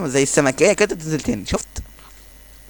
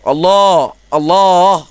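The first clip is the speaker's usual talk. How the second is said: excited cheer; 4 semitones higher, 5 dB louder, much slower than usual. Real, not acted. Cheering a great play.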